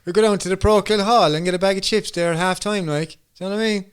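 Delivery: thick put-on Irish regional accent; mock local accent. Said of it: "Translate that there for me, please".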